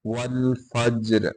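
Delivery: वल फज्र with the jeem bounced; qalqala on jeem. Shown as a demonstration. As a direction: echo the ज of फज्र with a light bounce. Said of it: "उस पे कलकला करते हैं".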